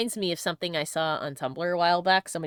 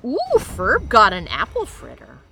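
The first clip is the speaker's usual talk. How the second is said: gasping delight; 2 semitones higher, 8 dB louder, slower than usual. Real, not acted. Delighted at a treat.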